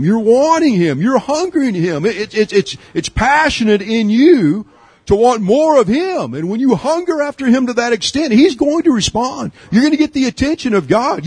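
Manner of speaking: high, urgent preaching voice, pushing on; fervent preaching. Acted. Preacher stirring his congregation to hunger for God, high and fervent. Preacher builds at full force.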